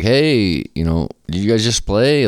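lightly imitated call across a street; mock yell. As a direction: stretch out a friendly hail without really shouting. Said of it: "He's, like, yelling over".

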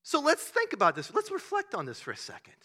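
hammed-up soothing session leader; spiritual director. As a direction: gently guide someone into reflection. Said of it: "leading a little spiritual, uh, direction session".

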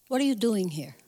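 lightly voiced Jewish mother; a hint of a mother's reproachful question. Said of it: "I'm saying it like a Jewish mother".

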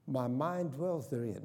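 slow, sincere self-talk affirmation. Shown as a demonstration. Pastor modelling self-talk, slow and sincere. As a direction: recite it like a calming creed. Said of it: "self-talk".

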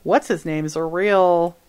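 mock the warning friend in a hint of Southern accent. Friend warning caller about a bigot, in a light Southern accent. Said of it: "I'm doing a Southern accent".

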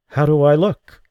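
lightly voiced woman asking anxiously; voiced injured woman. A narrator's reading. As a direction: lift into her voice, fragile and hoping. Injured woman asks her visitor.

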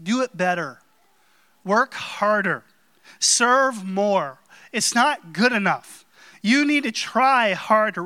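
demanding taskmaster barking orders; harsh taskmaster. Retold or imitated. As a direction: push them like a demanding boss. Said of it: "some taskmaster in heaven saying".

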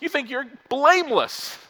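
high, loud, preaching at full pitch; zealous boast. Retold or imitated. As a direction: build the brag like a rally cry. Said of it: "He goes".

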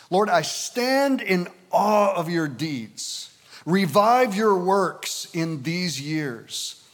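slow, solemn Bible reading; scripture reading. Acted. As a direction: proclaim it phrase by phrase, with long pauses. Reads second translation aloud.

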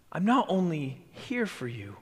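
intimate whisper. Acted. Jesus confiding to his disciples, a hushed whisper. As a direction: whisper it like a secret promise.

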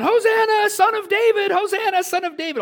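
put-on high, loud excited children's cry; kids yelling. Children chasing Jesus, yelling Hosanna in excitement. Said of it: "they're, like, yelling".

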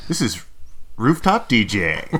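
slow DJ announcer intro; radio DJ voice. Pretend. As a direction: announce yourself like a DJ. DJ intro take.

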